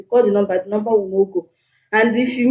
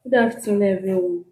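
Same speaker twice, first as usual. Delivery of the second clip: greeting repeated with more voice; louder; 4 dB quieter than usual. Real, not acted. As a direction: speak up for the room. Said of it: "Speak loud".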